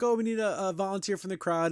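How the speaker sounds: hammed-up trainer hyping the crowd; exuberant trainer. Trainer asks the crowd for a volunteer, exuberant. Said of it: "you have the overly exuberant".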